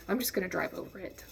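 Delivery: quick, soft inner decision; hurried, subdued self-talk; private resolve. Retold or imitated. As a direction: say it fast and softly to yourself. Deciding in head, first take.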